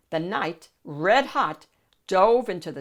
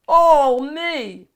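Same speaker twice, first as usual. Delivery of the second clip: loud, very slow, high yodel; 8 semitones higher, 12 dB louder than usual. Acted. Shrek in the Hall of Mirrors, loud joyful yodel. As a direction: sing it out delighted. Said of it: "he yodeled".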